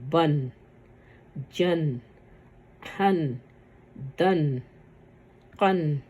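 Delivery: each syllable said apart with a nasal n like بن; tanween drill. Shown as a demonstration. Teacher showing how fatha tanween sounds, clear nasal n. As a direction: recite بن جن ہن with a clear n. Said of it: "کیسے آواز نکل رہی ہے".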